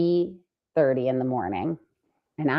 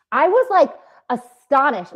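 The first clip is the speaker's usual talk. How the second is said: much higher, shocked; astonished; 9 semitones higher, 5 dB louder than usual. Retold or imitated. Telling co-host how shocked she was, high. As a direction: pitch flies up in disbelief.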